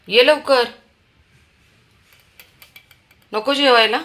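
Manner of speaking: high, loud summons to eat; calling out. Real, not acted. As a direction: call him to the table. Calling child to come eat.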